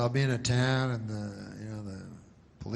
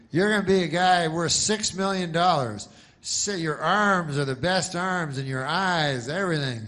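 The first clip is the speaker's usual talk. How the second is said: hyped producer; 5 semitones higher, 4 dB louder than usual. Retold or imitated. Producer pitching role to actor.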